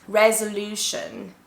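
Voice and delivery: "resolution" said slowly with stress on LU; syllable stress demo. Shown as a demonstration. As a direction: model "resolution" slowly, rez-uh-LOO-shun. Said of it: "make it stronger with your voice".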